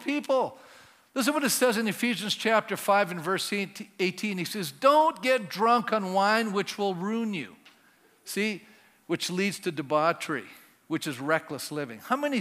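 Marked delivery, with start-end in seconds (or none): 4.7-7.5 slow, weighty scripture reading; scripture quote. Shown as a demonstration. Preacher reads Ephesians to the congregation, slow and weighty. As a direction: read it slow, giving each word weight.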